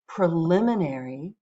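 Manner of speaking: second modelling of the word; teacher models the word again. Shown as a demonstration. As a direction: repeat preliminary for the class. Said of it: "Let's just say these words out loud".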